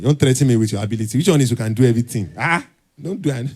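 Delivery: loud, quick, incredulous comeback; fast mock-outraged reply; exasperated retort. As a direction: fire it back at him, half-laughing in disbelief. Retorting to a vague applicant.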